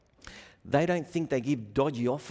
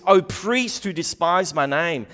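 stern rebuke; 2 semitones higher, 6 dB louder than usual. Acted. Preacher reading God's rebuke.

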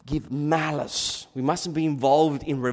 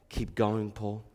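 usual speaking voice

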